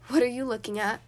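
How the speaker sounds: a hint of a grown man in a doll; lightly voiced sneering doll; grown man's voice. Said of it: "the doll said in a grown man's voice".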